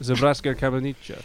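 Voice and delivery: mock Serbian accent on the place name; playful attempt at a Serbian accent; put-on Serbian accent. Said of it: "You've gotta do the accent".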